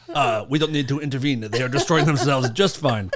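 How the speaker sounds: hint of a mock Chinese accent; half-hearted Chinese accent, drifting toward Russian; Chinese accent attempt. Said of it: "That's my best Chinese accent".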